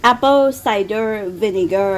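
slow, affected English accent; put-on English accent. Shown as a demonstration. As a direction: stretch each English word out pretentiously. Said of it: "ดัดจริตไว้ก่อน". (สำเนียงอังกฤษดัดจริต ลากเสียงช้าๆ)

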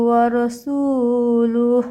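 রাসূলুহ ended clipped, no stretch; stop short. Shown as a demonstration. Teacher showing the pause at the end, careful recitation. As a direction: stop dead on the last হ of রাসূলুহ. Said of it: "এখানে থেমে যেতে হবে".

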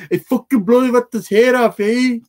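slow hammed-up quote; imitating movie line. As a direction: ham up the movie character. Quoting Chuy from Training Day.

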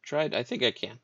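a hint of an eager wizard; Lulu's voice. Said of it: "Lulu says".

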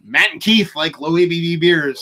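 mock news headline. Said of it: "ticker underneath a news program".

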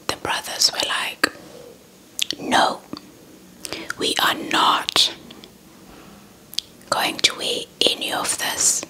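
ordinary delivery

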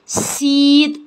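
"سيد" with a long 'ee' as in seed. Shown as a demonstration. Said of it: "هتتنطق زي ما بتتكتب اي".

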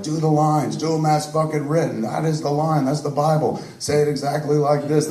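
mock-imperious director laying down rules; dictatorial director. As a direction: lay down the law on how lines get said. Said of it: "one of those really dictatorial directors".

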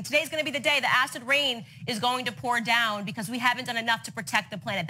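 a touch of hammed-up worry; imagined dread. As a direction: voice an anxious thought in imitation. Voicing a scared child's thought.

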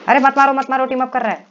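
loud, high-pitched protest; urgent shouting. Real, not acted. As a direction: yell to call off the attack. Calls out to stop a teamed-up attack. (घबराकर ज़ोर से चिल्लाकर रोकना)

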